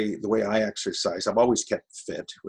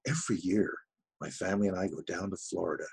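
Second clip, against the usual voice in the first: understated enthusiastic read; acted enthusiasm; 5 dB quieter, faster than usual. Shown as a demonstration. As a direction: act it, but not too much. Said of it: "There's a, an enthusiasm there".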